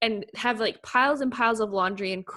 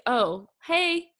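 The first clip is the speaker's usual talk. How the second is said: higher, casual mock greeting; breezy hello, as if nothing is odd; imitated nonchalance; 7 semitones higher than usual. Imitating guests greeting a spirit, nonchalant. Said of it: "all nonchalant".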